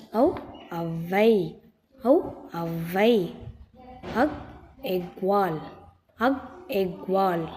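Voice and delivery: slow letter ஔ or அக், a pause, then ஔவை or எக் வால்; letter then word. Shown as a demonstration. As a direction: say ஔ alone, then ஔவை, slowly. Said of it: "சொல்லுங்க பாப்போம்".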